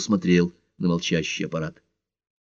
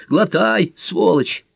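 high-pitched exasperated mother; higher-pitched bossy mummy voice; scolding mother; 11 semitones higher, much slower than usual. Acted. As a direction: play a nagging mum ordering her child to eat. Mother act ordering son to eat.

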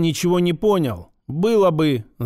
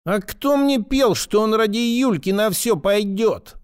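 much higher, squealing question; ultrasonic shriek; 5 semitones higher than usual. A narrator's reading. Pseudo-girl squealing at the major. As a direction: squeal it, almost bouncing. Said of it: "перешла на ультразвук".

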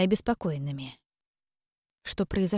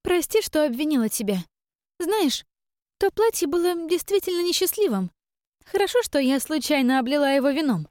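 much higher, sly mock-sweet voice; gloating sister; 9 semitones higher than usual. Sister gloating to Iren about the prince, high and sly. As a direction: twist the knife with false sweetness.

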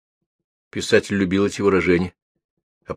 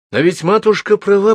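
thinking aloud; 12 semitones higher, 5 dB louder than usual. Acted. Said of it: "подумал он".

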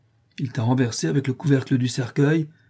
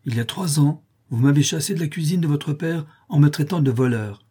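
vengeful threat; 2 semitones higher than usual. Acted. Joe threatening the doctor.

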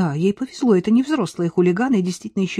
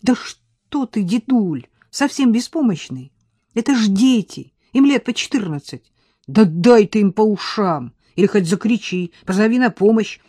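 silent urging; 3 semitones higher, 5 dB louder than usual. Acted. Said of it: "мысленно внушала деду Настя".

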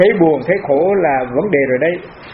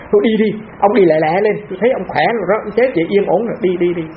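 cheerful shooing; 5 semitones higher than usual. Retold or imitated. Monk telling his dead father to go on, brisk cheerful urging. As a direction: wave him off lightly, go on now.

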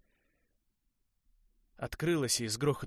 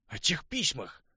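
sharp, higher, louder accusation; angry accusation; 7 semitones higher, 6 dB louder, slower than usual. A narrator's reading. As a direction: throw it in his face. Конор обвиняет. (Конор обвиняет Уэса из-за писем, зло и громко)

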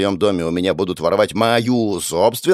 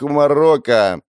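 plain reading voice

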